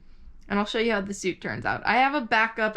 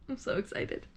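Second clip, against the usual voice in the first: soft excited whisper to herself; real excitement, whispered; 4 dB quieter than usual. Real, not acted. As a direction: breathe it out like a secret. Repeats it under her breath.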